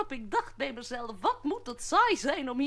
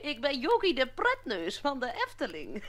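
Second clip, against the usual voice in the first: giggling clown. Acted. Clown introduces himself laughing.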